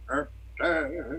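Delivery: vocal mimicry of a saxophone; imitated sax riff. Showing how the band's sax sounded, imitated riff. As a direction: honk it like a sax line. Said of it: "with the sax too, like".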